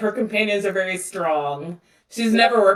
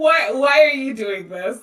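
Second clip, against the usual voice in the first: angry, raised-pitch protest tone; 6 semitones higher than usual. Voicing Shayna, who is being picked up and carried away: angry. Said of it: "she's very angry".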